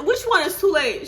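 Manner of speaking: high, loud laughing protest. Retold or imitated. Mother protesting with a laugh to the nurse. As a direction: fire it back half laughing.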